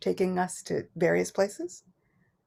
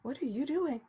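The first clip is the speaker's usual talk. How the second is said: puzzled mother dog; 4 semitones higher, 11 dB quieter than usual. Retold or imitated. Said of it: "the mother dog was really kinda just looking like".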